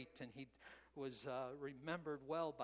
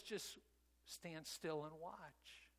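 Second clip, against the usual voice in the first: softer and very slow, steady and calm; calm reassurance; 5 dB quieter, much slower than usual. Retold or imitated. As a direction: let it settle, quiet and unhurried like a reassuring God. God calmly answers Moses.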